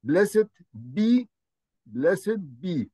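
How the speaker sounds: "blessed be" lifted high first, then settled; quick translation. Shown as a demonstration. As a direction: give the English gloss clearly. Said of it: "the quick translation". ("blessed be" بنبرة عالية ثم هابطة)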